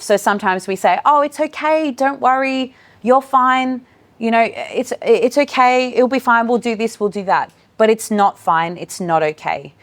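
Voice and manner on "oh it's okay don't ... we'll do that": high, breezy reassurance; dismissive. Shown as a demonstration. Educator brushing off an upset child, chirpy and dismissive. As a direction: rush the child past the feeling.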